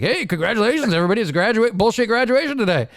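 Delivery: hammed-up cheery announcer; mock congratulations. Mocking the training-class graduation, cheerily congratulating everybody.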